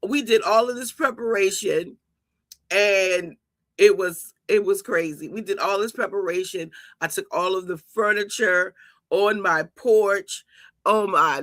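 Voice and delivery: ordinary delivery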